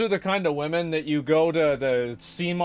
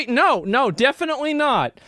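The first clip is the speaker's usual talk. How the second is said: mock agreement; 10 semitones higher than usual. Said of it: "And I'll go".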